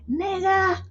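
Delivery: high, put-on British accent; playful fake British cussing; mock British accent. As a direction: cuss cutely in a pretend British accent. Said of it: "she said with a British accent".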